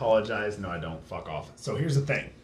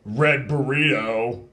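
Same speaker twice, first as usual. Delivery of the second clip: mock polite complaint; 7 semitones lower, much slower than usual.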